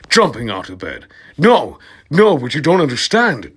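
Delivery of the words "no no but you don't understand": high, loud pleading no; a hammed-up high plea. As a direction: plead with him desperately. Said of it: "Draco pleaded".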